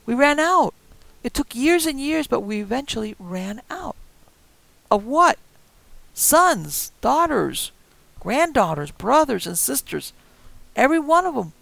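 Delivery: put-on high, loud, cracking old voice; old woman explaining loudly why they need her; high old woman lament. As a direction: wail the loss of family. Old couple's grim confession.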